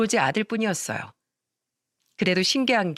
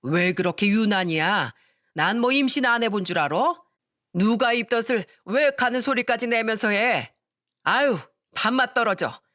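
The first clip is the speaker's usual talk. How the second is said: snapping; 2 semitones higher than usual. Acted. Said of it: "쏘아붙이듯 말했어요".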